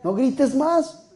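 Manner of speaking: soft, slow shushing rebuke; mock hushing. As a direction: hush the noisy one down. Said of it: "nos dicen como al ciego de Jericó".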